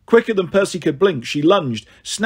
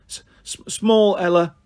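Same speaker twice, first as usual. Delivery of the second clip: angry stutter; 3 semitones higher than usual. Acted. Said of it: "she stuttered angrily".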